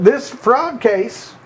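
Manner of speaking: put-on the words "This fraud case" stretched very slowly in a Southern Clinton accent; slow Clinton quote. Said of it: "this is the judge talking".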